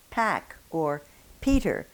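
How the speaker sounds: pack and Peter with a strong puff on the p; breathy English p in pack, Peter; English aspirated p. Shown as a demonstration. Teacher showing English words, aspirated p. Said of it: "same consonant that we have in English".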